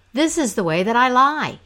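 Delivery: shouted. Acted. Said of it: "shouted back to the men".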